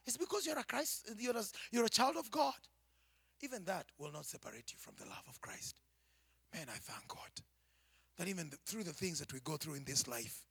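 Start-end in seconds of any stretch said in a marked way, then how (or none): 3.4-7.3 hushed, breathy whisper. Real, not acted. Preacher hushing his voice to whisper to the church. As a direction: drop to a whisper for the congregation.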